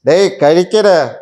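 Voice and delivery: loud, drawn-out order to eat; mock scolding insistence. Mimics him insisting on eating. (ശാസിച്ച് നിർബന്ധിക്കുന്ന അനുകരണം)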